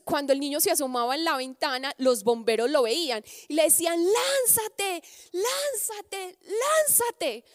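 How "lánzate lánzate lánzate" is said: high calling voice of the firefighters below. Acted. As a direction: call up to the boy at the window, high and urgent. Firefighters shout to boy.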